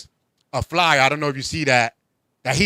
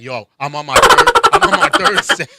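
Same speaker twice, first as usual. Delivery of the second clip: mock gym boast; 6 dB louder than usual. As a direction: brag like a gym rat.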